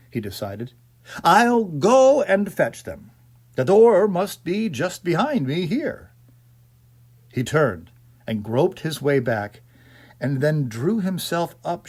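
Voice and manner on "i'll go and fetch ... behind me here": a touch louder and higher, brisk resolve; lightly voiced man making up his mind; mildly brisk self-instruction; decisive gentleman. A narrator's reading. Mister Court deciding aloud.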